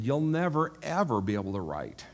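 "never" pushed up high, mock-stern teacher; imitating a stern teacher crushing a student; teacher's put-down.

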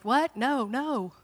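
retold disbelief, swooping pitch; disbelieving denial. Mother told her child is gone, in denial. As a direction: refuse to believe it. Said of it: "I'm, like, in denial".

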